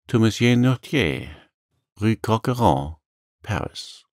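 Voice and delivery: lightly voiced helpful young sailor; innocent answer. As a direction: give the address openly, unsuspecting. Dante innocently answers the deputy's question.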